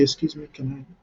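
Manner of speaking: softly spoken, courteous interjection; polite request. Shown as a demonstration. Networker cutting into someone else's chat, politely. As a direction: ask gently for a moment to speak. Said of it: "just politely say".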